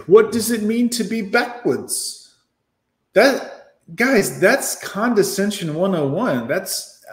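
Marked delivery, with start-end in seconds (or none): 0.1-2.3 high, slow mocking quote; mocking female voice. Mocking the woman's question to his viewers, slow and high. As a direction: parrot her words in a higher prissy voice. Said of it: "What a female thing to say".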